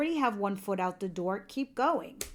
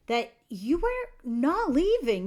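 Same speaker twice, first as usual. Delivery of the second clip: slow, drawn-out and louder, higher emphasis; emphatic; 4 semitones higher, 5 dB louder, slower than usual. Acted. Reader tells Leos they would never leave, slow and emphatic. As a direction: drag each word out to drive it home. Reader drives home a point.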